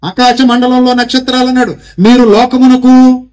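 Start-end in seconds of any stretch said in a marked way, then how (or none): 2.0-3.3 slow, loud, drawn-out chant of the verse; loud slow call. Shown as a demonstration. Preacher leads the congregation in a loud, slow recital. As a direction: proclaim it so the whole hall can repeat. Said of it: "చెప్పండి, గట్టిగా చెప్పండి".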